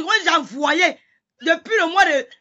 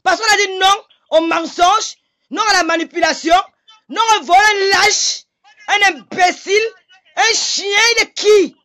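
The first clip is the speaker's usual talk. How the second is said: crying while shouting, higher and slowing; tearful anger; 4 semitones higher than usual. Real, not acted. Woman insulting her accuser on a live, crying in rage. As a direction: spit the insults out through tears.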